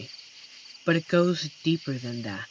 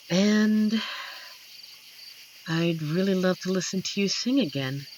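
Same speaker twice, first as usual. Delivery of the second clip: ordinary talk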